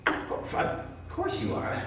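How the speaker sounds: slow, whispery "of course"; tender assurance. Acted. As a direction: reassure softly and lovingly. Gently voicing the loving reading.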